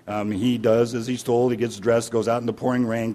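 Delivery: usual speaking voice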